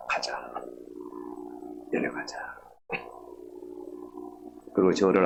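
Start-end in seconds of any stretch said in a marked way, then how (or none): 0.1-2.6 soft near-whisper, voice dropped low; hushed gentle urging. Retold or imitated. Elder quietly coaxing the boy to come down in a soft near-whisper. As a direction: coax him gently down the mountain.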